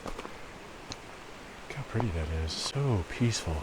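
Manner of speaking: soft, slow hushed whisper. Real, not acted. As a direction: breathe the words out in awe. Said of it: "I don't know why I'm whispering".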